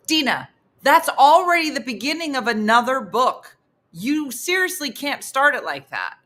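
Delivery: exasperated. Retold or imitated. Partner protesting her borrowed book opening, exasperated. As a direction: imitate him insisting in disbelief. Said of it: "his exasperation".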